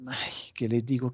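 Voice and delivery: hushed whisper as if thinking aloud; whispered pondering. Acted. Government whispering, wondering what to tell the bank.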